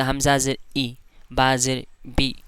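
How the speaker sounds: vowel cut off with a jolt; wrong jerky reading. Shown as a demonstration. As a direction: show the pupils' mistake of jerking the vowel. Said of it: "इस तरह करके। तो इस तरह नहीं करना है".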